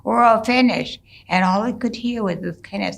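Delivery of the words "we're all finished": higher, coaxing call into the shelter. Retold or imitated. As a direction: coax him out, a little worried. Father calls silent son.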